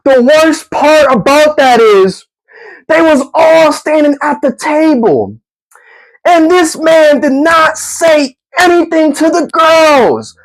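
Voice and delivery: can't believe it, still laughing; laughing exasperation. Real, not acted.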